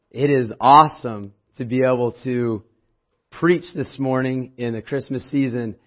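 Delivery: hoarse, strained voice. Real, not acted. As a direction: push through a hoarse throat. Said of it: "I lost my voice".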